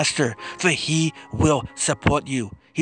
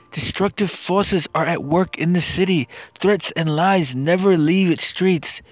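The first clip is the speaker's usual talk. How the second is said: impassioned plea; 5 semitones higher than usual. Acted. Anguished lament in psalm reading.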